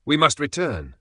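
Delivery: narrator's Axel pleading vehemently to turn back; vehement exclamation. A narrator's reading. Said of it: "I exclaimed vehemently".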